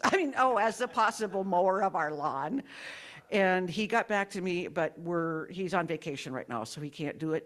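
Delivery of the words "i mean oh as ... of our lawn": amused, raised-voice backtrack; laughing self-correction. Real, not acted. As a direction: burst out laughing while fixing a slip. Laughs at own sacrifice slip.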